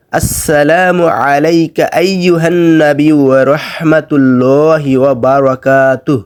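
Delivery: slow, melodic Arabic recitation; careful recitation. Shown as a demonstration. Teacher reciting the second line, slow recitation. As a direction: hold the long vowels evenly.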